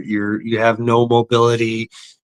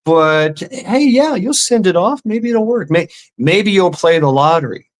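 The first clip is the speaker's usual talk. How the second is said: mocking sales pitch; 4 semitones higher than usual. Mocking the TV preacher.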